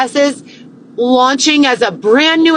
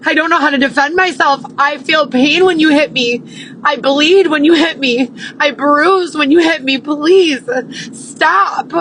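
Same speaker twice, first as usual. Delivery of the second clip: begging; 3 semitones higher than usual. Retold or imitated. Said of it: "me crying and begging for help".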